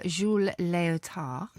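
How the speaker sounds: Jules Léotard in a bad French accent; a quick, self-mocking French accent; fake French accent. Shown as a demonstration. Guest names the trapeze artist in a French accent. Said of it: "I never put on a fake French accent".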